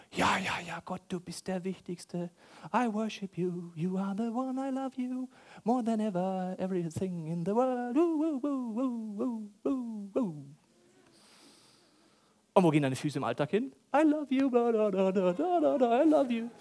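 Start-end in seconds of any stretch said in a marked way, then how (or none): 0.1-10.4 mock worship. Mocking hypocritical worship. 13.9-16.5 mock worship. Mocking empty worship singing.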